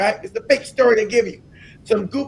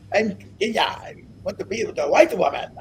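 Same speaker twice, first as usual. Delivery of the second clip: half-hearted mock African accent, softer; goofy African accent; 3 semitones lower, 5 dB quieter than usual. Speaker imitating the Kenyan suitor, goofy African accent. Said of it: "I can't even do the goofy accent".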